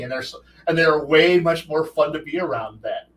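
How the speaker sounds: ordinary delivery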